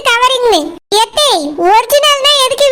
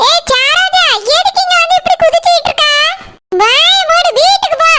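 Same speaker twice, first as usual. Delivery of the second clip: raised, higher angry voice ordering her off; angry scolding; 4 semitones higher than usual. Acted. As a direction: snap at her to shut up and go home. Scolding Saroja, ordering her home. (கோபமாக உயர்ந்த குரலில் திட்டுதல்)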